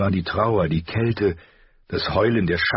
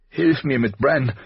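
higher, louder, slow pressing call; urgent cry; 8 semitones higher, 3 dB louder than usual. A narrator's reading. Caitlin cries out to Robb to help with Bran, urgently. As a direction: demand help now, voice rising. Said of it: "rief sie drängend".

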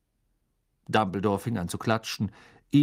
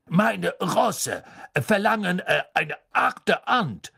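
doubtful grand lady; 8 semitones higher, 4 dB louder, slower than usual. A narrator's reading. Madame Maxime, doubtful.

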